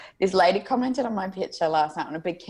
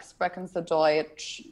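put-on Aussie accent; slower than usual. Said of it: "one of my favorite things to do".

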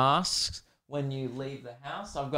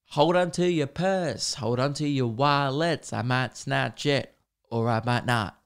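slow, drawn-out teasing warning; mock criminal; slower than usual. Black-mask wearer warning passers-by, mock menacing. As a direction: play a would-be thief, unhurried.

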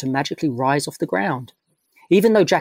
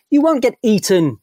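louder and higher, reassuring; firm raised voice; 8 semitones higher, 6 dB louder than usual. Acted. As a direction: raise your voice over your friend's worry. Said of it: "raising his voice".

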